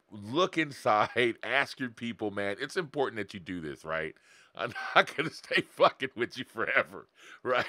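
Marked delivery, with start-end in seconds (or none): 4.5-7.6 laughing. Real, not acted. Laughs mid-sentence.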